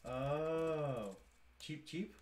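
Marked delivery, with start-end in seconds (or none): 1.6-2.1 put-on peeping baby chick. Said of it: "Typically associated with baby chickens".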